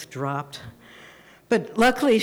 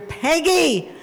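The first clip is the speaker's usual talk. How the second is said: called loud and high through a door; mother calling Peggy from outside the door; 10 semitones higher, 4 dB louder than usual. Retold or imitated. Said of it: "I hear".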